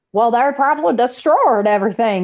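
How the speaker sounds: put-on blustery cartoon rooster voice. Retelling what a politician said on a show, imitating James Comer in a Foghorn Leghorn voice. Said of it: "in his, like, foghorn leghorn voice".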